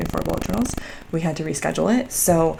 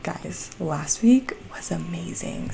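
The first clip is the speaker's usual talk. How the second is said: breathy hushed aside, slow; whispered thrill to the viewers; excited whisper; 4 dB quieter, slower than usual. Real, not acted. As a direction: lean in and whisper the good news.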